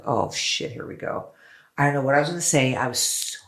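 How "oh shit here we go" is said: nervous whisper. Retold or imitated. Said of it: "And I was like".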